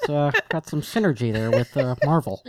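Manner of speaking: half-baked impression of a halting filmmaker; hesitant filmmaker announcing a project; lightly voiced director, full of uhs; George Lucas. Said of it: "bust out my George Lucas half-baked impression".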